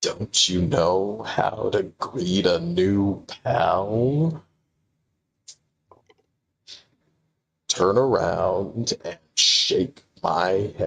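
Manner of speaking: low, very slow, cartoony yet grounded voice. Voicing a mysterious silhouette greeting a new pal: cartoony but serious character voice. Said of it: "I'm doing that one then".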